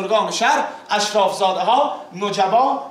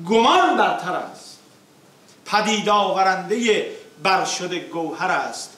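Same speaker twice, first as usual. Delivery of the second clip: rhythmic declaimed verse, falling line ends; epic teahouse storyteller; slower than usual. Acted. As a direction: recite the verses with epic weight. Reciting opening verses.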